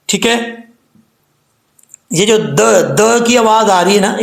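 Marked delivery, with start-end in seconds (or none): 2.4-3.2 "द" as a bouncing d with a short echo; isolated echoing "द"; qalqala. Shown as a demonstration. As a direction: pop "द" with a brief rebound. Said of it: "ये कलकला है।".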